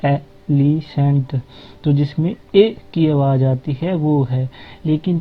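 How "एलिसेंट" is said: एलिसेंट said slowly, each sound drawn out; teacher spelling out एलिसेंट slowly; slow demo of a word. Shown as a demonstration. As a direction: stretch एलिसेंट out for the class. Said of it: "जैसे आप एलिफेंट बोलते हैं".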